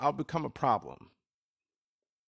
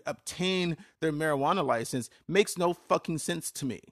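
heated rant; 3 semitones higher than usual. Real, not acted. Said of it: "I had to take a minute and calm down".

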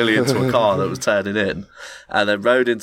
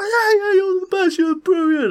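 very high, louder manic praise; squeaky gushing addict; imitating a high guy adoring his new friend; crackhead voice; 4 dB louder than usual.

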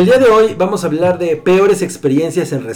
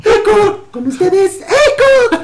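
last word echo; slower than usual. Pretend. Mock ad jingle high.

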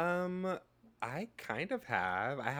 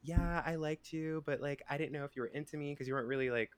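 higher casual guy voice; quoting him; 5 semitones higher than usual. Retold or imitated. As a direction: lightly imitate his offhand tone. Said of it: "And he was like".

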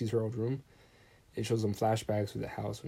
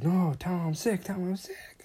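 mild mock yell; 8 semitones higher than usual. Film princess balking at dinner, mildly mock-yelled. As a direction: retell her protest in a raised, mock-yelling pitch. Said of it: "she starts yelling".

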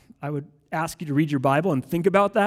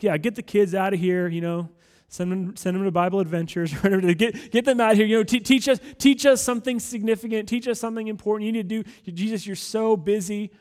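mock-hurried disciples, pitched up a little; impatient disciples; 3 semitones higher than usual. Disciples shooing children away from Jesus, lightly acted impatience. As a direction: play busy followers pestering their teacher. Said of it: "the disciples are like".

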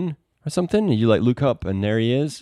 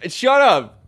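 laughing shout; 12 semitones higher, 7 dB louder, slower than usual. Real, not acted. Teasing banter.

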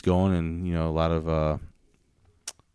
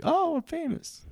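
high, slow, smug imitation; mock famous rapper; slower than usual. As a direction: sing out like an instant star. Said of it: "posted four songs like".

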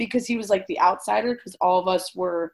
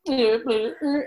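imitated tongue-tied noises. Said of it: "We would be the ones to be being like".

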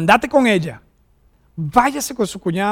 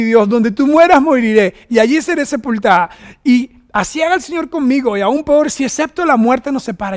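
loud mock declaration; 3 semitones higher, 5 dB louder than usual. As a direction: belt out the wife's promise. Wife's vow voiced loudly.

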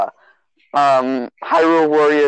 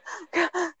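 dramatic gasp; 11 dB quieter than usual. Retold or imitated. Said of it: "you were like".

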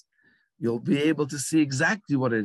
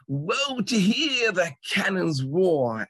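much higher, slow, grand declaiming; full theatrical outburst; 7 semitones higher, slower than usual. Retold or imitated. Actor suddenly declaiming in the street, grand slow outburst. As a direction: throw the line to the rooftops, stage-sized.

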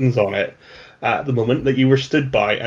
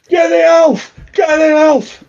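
much higher, louder mob yell; mob shout; 14 semitones higher, 4 dB louder than usual. Acted. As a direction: shout to the crowd to grab the elf. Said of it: "It's like".

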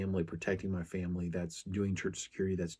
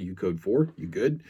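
calling out; 6 dB louder than usual. Retold or imitated. Calling out to officer at scene.

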